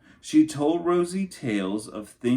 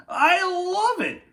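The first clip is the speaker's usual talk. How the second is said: high, loud hooting delight; hooting uncle; 6 dB louder than usual. A narrator's reading. Uncle Fred hooting over the cheese hat, high and loud. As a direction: whoop it out like a tickled uncle. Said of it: "Fred hooted".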